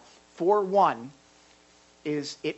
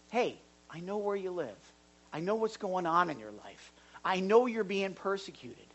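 gentle voice of someone who knows and cares; reassuring. Shown as a demonstration. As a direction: comfort someone who is suffering. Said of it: "I'm seeing it as".

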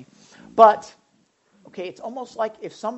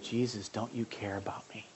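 plaintive disciples; 8 semitones lower, 10 dB quieter than usual. Retold or imitated. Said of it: "They said".

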